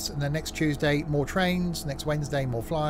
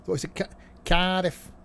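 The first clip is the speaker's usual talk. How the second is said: put-on failed Welsh accent; 5 semitones higher than usual. Streamer tries a Welsh announcer voice, failed Welsh accent. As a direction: drag out Cardiff in a mock Welsh accent. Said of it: "that wasn't Welsh".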